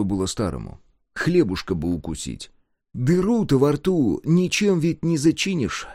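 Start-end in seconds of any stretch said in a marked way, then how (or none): none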